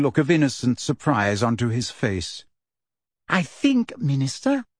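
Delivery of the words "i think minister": silky Umbridge. A narrator's reading. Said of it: "said Umbridge silkily".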